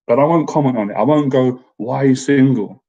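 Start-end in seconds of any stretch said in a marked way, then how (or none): 1.8-2.8 mild judgmental tone. Retold or imitated. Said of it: "Like, in, in a judgmental way".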